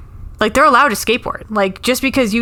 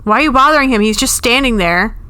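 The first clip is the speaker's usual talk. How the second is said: raised, indignant hey what are you doing; mock pop-singer call-out; 5 semitones higher than usual. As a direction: stop the show and scold security. A singer stopping a concert.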